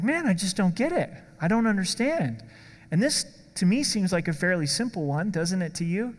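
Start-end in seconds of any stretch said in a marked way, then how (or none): 0.0-2.4 lightly puzzled, pitch a little lifted; mild mock bafflement. Confused Bible student admitting defeat, mildly baffled.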